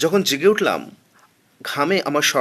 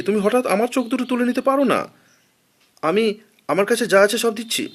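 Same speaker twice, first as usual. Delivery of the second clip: high, strained, frantic protest; panicked high appeal to mercy; desperate pleading; 7 semitones higher than usual. A narrator's reading. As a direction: plead as if the knife is already there. Begging robber to spare eyes.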